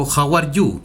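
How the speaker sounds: How are you said in English; English phrase. Retold or imitated. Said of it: "Jesús llegó y dijo". (How are you en inglés)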